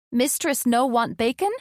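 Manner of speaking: high, pinched creature voice, puzzled; a small servant creature frets, lifted and squeaky; frowning little creature. A narrator's reading. Bug asks his mistress why she refuses bacon, high and squeaky. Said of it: "Bug asked, frowning".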